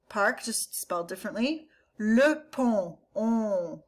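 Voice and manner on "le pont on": "pont" with a nasal vowel and a silent T. Shown as a demonstration.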